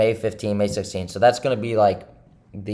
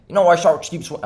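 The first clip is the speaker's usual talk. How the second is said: put-on Tony Soprano accent; 3 semitones higher than usual. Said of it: "Tony's accent".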